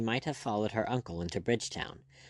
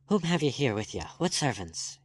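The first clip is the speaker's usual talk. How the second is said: sharp demand; 4 semitones higher than usual. Acted. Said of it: "he demanded sharply".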